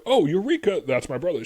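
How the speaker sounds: mock eureka. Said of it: "she doesn't go like".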